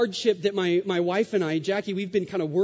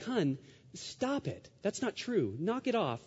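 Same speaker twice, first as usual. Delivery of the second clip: gentle protest; 3 semitones higher, 7 dB quieter than usual. Retold or imitated. Husband to his hurting wife who says she's sorry, gently protesting. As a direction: softly hush a loved one's apology.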